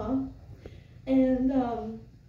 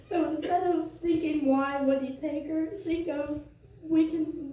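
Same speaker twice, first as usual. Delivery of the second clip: faltering tender eulogy; 3 semitones higher than usual. Real, not acted. Tears during the eulogy.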